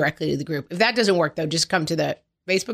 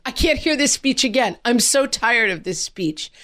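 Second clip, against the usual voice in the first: put-on higher, whiny bored child; lightly voiced exasperated son; mock fed-up kid; 5 semitones higher than usual. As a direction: imitate a tired kid groaning, pitch up. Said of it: "he just was like".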